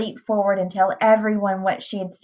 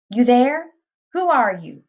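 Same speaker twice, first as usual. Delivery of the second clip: raised, forceful challenge on the first words; demanding; 5 semitones higher, 3 dB louder than usual. A narrator's reading. Estate boss confronting a strange girl, demanding. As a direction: demand an answer sharply. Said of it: "he demanded".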